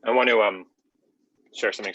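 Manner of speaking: talking while chewing breakfast; mouth full. Real, not acted. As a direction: speak around a mouthful of food. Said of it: "I'm in the middle of breakfast and I'm chewing".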